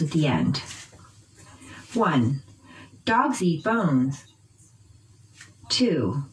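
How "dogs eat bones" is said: slow "dogs eat bones" with "dogs" and "bones" stressed; noun stress. Shown as a demonstration. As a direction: drill model of "dogs eat bones", pitch change on the nouns. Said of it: "Practice the noun stress pattern after me".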